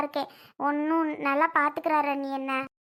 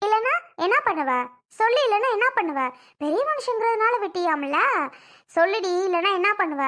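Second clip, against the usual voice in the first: daring her to answer back; confronting her, raised and demanding; angry challenge; 3 semitones higher than usual. Acted. Sister-in-law's relative confronts angrily.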